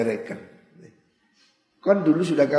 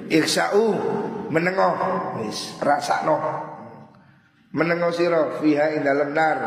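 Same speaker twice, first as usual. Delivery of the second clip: higher, sharp telling-off; stern rebuke; 3 semitones higher than usual. Acted. God telling the wailing damned to shut up, stern. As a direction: silence them harshly.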